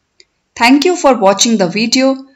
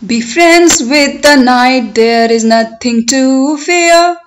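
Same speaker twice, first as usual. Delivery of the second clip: poem recitation. Shown as a demonstration. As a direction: recite it for learners, stretching the words, lifting line endings. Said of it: "I will recite line by line".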